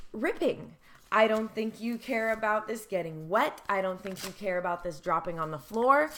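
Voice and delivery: growing indignation; speaking as a discarded object, rising to anger; building anger. Acted. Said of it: "This is what I feel like".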